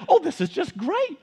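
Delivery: husband mimicking wife's delight at sewing; imitating his wife. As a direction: soar up on oh, gushing. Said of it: "my voice for her".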